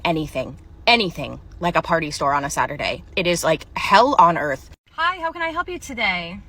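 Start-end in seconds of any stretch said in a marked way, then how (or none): 4.9-6.4 chirpy cashier greeting. Acted.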